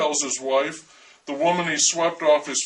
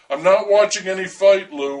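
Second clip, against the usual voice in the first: half scream; 3 semitones higher, 5 dB louder than usual. Acted. Tearful wife half-screams at husband. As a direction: nearly scream it at him. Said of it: "or half screams".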